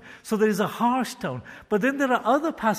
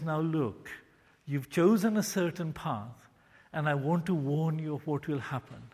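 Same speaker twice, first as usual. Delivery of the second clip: gentle gracious. Shown as a demonstration. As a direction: warn them gently, like a patient father. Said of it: "God gently and graciously speaks".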